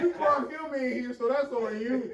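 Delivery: loud, high and laughing; worked-up, laughing rant; laughing accusation. Real, not acted. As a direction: accuse a friend loudly through laughter. Laughing mock accusation among friends.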